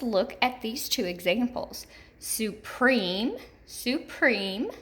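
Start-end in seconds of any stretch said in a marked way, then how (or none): 2.2-3.4 "supreme" with a long E on its second syllable, rising; stressed second syllable. Shown as a demonstration. Teacher giving an example, "supreme" stressed on the second syllable. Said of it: "hear those long E's in both of those". 3.6-4.7 "supreme" with a long E on its second syllable, rising; stressed second syllable. Shown as a demonstration. Teacher repeating an example, "supreme" stressed on the second syllable. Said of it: "hear those long E's in both of those".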